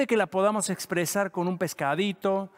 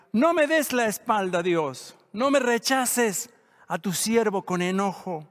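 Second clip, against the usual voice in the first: crying out to God; 3 semitones higher than usual. Retold or imitated. David pleading with God not to turn away, raised cry. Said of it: "dice él mismo y grita".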